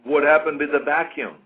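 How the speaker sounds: imitated heckle, called out loud; Frank Zane. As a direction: call it out like a heckler. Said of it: "Frank Zane will call out".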